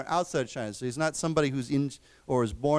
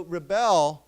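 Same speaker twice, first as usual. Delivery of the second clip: "rebel" stressed on its second syllable, re-BEL; 4 dB louder than usual. Shown as a demonstration. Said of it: "the accent is different".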